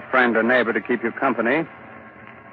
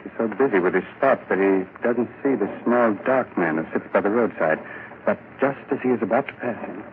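story narration; 2 semitones lower than usual. Acted. Narrator sets the scene.

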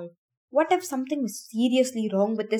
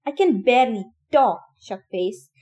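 raw yell; 7 dB louder than usual. Acted. Minho yelling at Albie while exhausted, raw. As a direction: bark it at him, spent and angry. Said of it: "Minho yelled, his voice raw".

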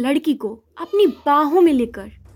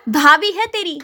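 gentle scolding; 3 semitones higher than usual. Acted. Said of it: "प्यार से समझाया".

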